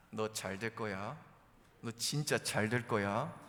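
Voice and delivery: slow, restrained blessing; through gritted teeth. Acted. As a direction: force out encouragement slowly, holding back. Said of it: "이를 악물고서라도".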